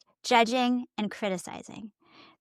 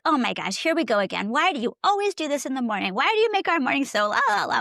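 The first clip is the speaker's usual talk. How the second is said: mock scolding; 3 semitones higher than usual. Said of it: "so tempting to be like".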